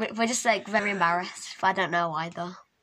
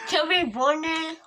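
cheeks stuffed full. Real, not acted. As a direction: mouth full of marshmallows. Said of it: "You're eating it!".

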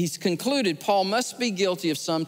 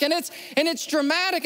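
ordinary talk

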